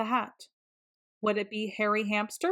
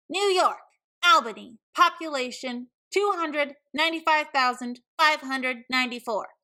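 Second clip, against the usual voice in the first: know-it-all interrupting; 4 semitones higher than usual. Acted. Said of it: "Camilla interrupted".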